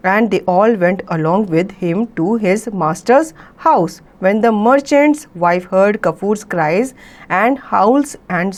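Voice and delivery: very slow, careful read-aloud of an English story. A narrator's reading. Teacher reading the story to students, very slow and clear. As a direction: read each phrase slowly so the class can follow.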